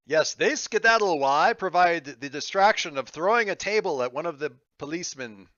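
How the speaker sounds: put-on another character's accent, loud and lively at first; Monster's accent. Player suggesting a distraction, in a put-on character accent. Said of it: "I gave that particular suggestion in Monster's accent".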